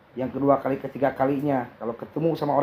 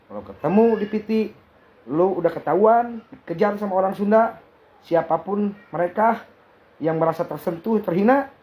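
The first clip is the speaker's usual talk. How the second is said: raised, fast angry warning; heated threat; 6 semitones higher than usual. Real, not acted. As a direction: rattle off the threat, worked up. Threatening Big Mo, rallying others.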